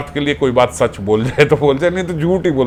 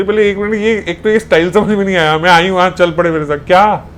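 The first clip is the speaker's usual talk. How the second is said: a sharp, raised angry demand; angry questioning; 3 semitones higher than usual. Acted. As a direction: confront him, demanding an answer. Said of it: "वो गुस्से में पूछे". (गुस्से में सवाल करती सखी)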